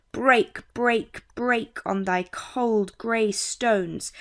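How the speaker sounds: "Break, break, break" in slow, separate, equally stressed beats; spondaic stress. Shown as a demonstration. Teacher showing a spondaic foot, every word of "Break, break, break" stressed. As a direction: give each of "cold grey stones" its own slow, full stress. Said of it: "A spondaic foot is two stressed syllables".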